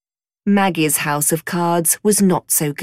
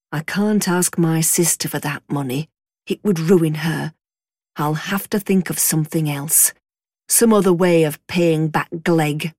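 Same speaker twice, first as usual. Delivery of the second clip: father musing to himself; 3 semitones lower than usual. Acted. A worried father talks to himself on his horse, low and musing. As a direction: mull it over under your breath like a worried father. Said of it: "talking to himself. deep in thought".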